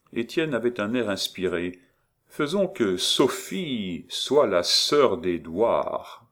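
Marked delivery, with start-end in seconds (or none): 2.3-6.3 slow, weighty, deliberate; solemn pronouncement. Acted. Étienne solemnly proposing his idea to Maurice. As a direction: announce it like a revelation, slowly. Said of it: "prononça-t-il solennellement".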